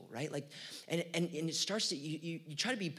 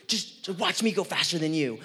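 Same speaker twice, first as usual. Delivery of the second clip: smug taunt; 8 dB louder than usual. Pretend. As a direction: gloat as you pass them. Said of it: "give 'em that look".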